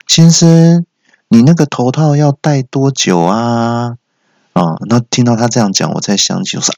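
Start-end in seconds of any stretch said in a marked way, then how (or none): 0.1-4.0 lightly voiced assistant, high on the opening; dental assistant. Assistant asking patient about the dog mask, drawn-out. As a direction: call out, then drag the question out slowly. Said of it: "传来助理小姐的声音说".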